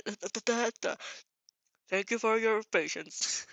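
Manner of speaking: a hint of a PA announcer voice; lightly voiced store announcement over the PA; mall announcement. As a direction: read it like the mall loudspeaker. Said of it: "I don't know how the, the megaphones work".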